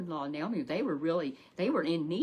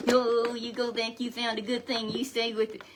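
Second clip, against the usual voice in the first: eager urging; 4 semitones higher, 4 dB louder than usual. Retold or imitated. Mother-in-law urging Ruth.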